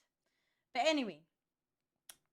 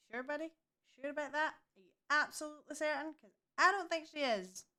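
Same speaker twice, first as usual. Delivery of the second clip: sarcastic disbelief; 6 semitones higher, 3 dB louder than usual. Real, not acted. Sarcastic retort to doctor.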